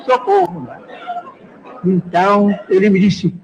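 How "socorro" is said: retold panicked scream. Crowd on the plane panicking, a high mock scream. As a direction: squeal it up high like a scared crowd. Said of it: "E o povo todo gritando".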